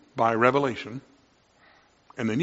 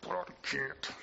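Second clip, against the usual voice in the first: louder pleading "okay", dropping to defeat; exasperated give-in; 2 semitones higher, 6 dB louder than usual. Retold or imitated. A frustrated believer wrestling, louder then defeated. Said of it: "where you're going".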